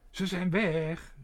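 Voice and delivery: luid en langzaam, hoger; roepend. A narrator's reading. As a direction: roep het uit over de zaal. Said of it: "riep hij". (meneer Pardoes roept de gasten langzaam en luid toe)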